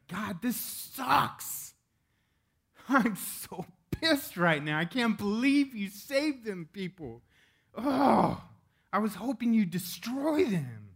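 high, slow, whining cartoon voice; hammed-up cartoon tantrum, drawn out and high; whiny cartoon Jonah. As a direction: pitch it way up like a sulking Veggie Tales character. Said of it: "For those of you that like Veggie Tales".

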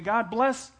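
high loud demanding prayer; preacher mocking selfish prayers, high and loud. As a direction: mimic a pushy believer telling God. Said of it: "we're saying".

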